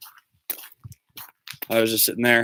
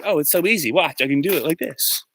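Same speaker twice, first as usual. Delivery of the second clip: mock bragging; 7 semitones higher than usual. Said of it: "And he's just like".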